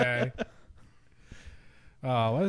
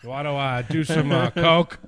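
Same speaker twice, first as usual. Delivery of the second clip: Al Franken impression; 4 dB louder than usual. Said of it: "That's my Al Franken impression".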